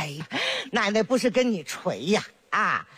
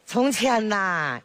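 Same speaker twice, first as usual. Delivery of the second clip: storytelling opening; much slower than usual. Acted. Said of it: "奶奶该给讲故事喽".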